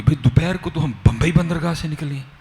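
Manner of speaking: mildly alarmed, questioning what happened; worried father. Retold or imitated. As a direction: imitate a father's baffled worry. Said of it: "والد صاحب بڑے پریشان ہوئے".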